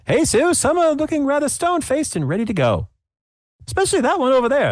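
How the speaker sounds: very high, quick co-host quip. Acted. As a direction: toss it back to the host. GM voices co-host Tim.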